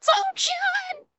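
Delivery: high, breathless real laughter; laughing so hard you can't breathe; crying with laughter. Real, not acted. Co-host losing it over the torpedo story, breathless laughter. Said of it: "I'm crying".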